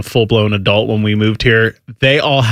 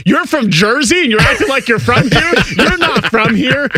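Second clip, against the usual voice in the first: mocking New Yorkers; 10 semitones higher than usual. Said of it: "they're like".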